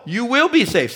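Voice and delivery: WILL BE high and emphatic; absolute certainty. Real, not acted. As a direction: drive home WILL BE as a sure thing. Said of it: "See how absolute".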